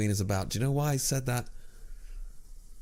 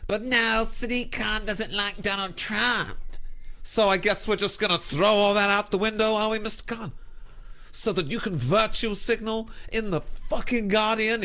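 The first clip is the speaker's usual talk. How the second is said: much higher, sneering indignant tirade; shrill sarcastic rant; 10 semitones higher than usual. Acted. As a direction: sneer at him in a shrill fury. Shrill sarcastic ranting peak.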